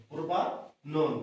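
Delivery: প্রোপানন drawn out very slowly, each syllable clear; slow careful repeat. Shown as a demonstration. Teacher repeating the name slowly so students can write it. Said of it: "এটা হচ্ছে কি?".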